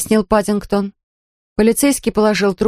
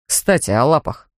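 offhand; 5 semitones lower than usual. Acted. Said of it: "сказал он небрежно".

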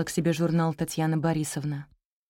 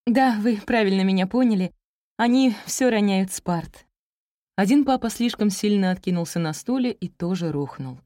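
higher, earnest listing; eager young teacher, emphatic; 4 semitones higher than usual. Acted. Teacher listing pupils' mishaps to their parents, earnest. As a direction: list the troubles emphatically. Teacher continues her complaints.

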